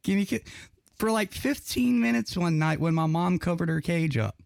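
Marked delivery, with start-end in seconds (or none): 0.0-0.4 higher, sing-song talking bird voice; chirpy little parrot chant; parrot impression. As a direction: mimic a pet bird begging for kisses. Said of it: "Scooby goes".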